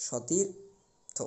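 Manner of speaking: সতীর্থ said very slowly and softly with an open অ; slow soft demo. Shown as a demonstration. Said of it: "উচ্চারণটা আমাদের হবে এরকম". (সতীর্থ খুব ধীরে, নরম স্বরে)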